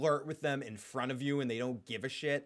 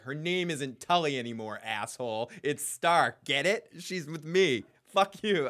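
mock angry retort; 5 dB louder than usual. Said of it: "I'd be like".

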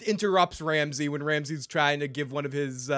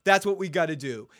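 high, loud mock challenge; hammed-up heroic dare; imitating Jon Snow; 4 semitones higher, 3 dB louder than usual. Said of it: "Where he goes".

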